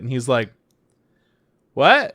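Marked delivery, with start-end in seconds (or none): 1.7-2.1 high, startled mock what; confused what. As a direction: pop it up high like you're lost. Confused reply to French thanks.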